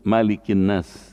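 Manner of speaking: "Malikin Nas" with the first syllable "Ma" kept short; short mim in Malikin. Shown as a demonstration. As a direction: say "Malikin" with a brief, unstretched "Ma". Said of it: "mimnya pendek".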